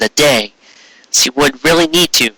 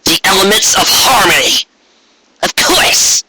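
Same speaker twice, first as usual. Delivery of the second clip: excited realization; 7 semitones higher than usual. Acted. Trixie's sudden realization.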